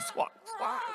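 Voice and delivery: high squawking penguin call. Acted. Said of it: "Roy and Silo called back".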